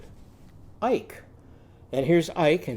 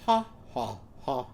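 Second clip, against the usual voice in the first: laughing bleat; 5 dB quieter than usual. Shown as a demonstration. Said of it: "almost like she's laughing".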